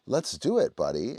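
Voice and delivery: high, loud pep talk to the dog; hammed-up coach cheering her dog on; hyped cheer. Shown as a demonstration. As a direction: fire the dog up. Pumping up low drive dog.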